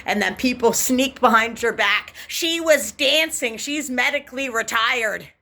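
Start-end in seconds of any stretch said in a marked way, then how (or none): 2.3-5.3 put-on high, slow, childish tattling; high mocking tattletale voice; childish mock gossip. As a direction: tattle on her like a sneaky kid. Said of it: "they talk like that too. Like kids".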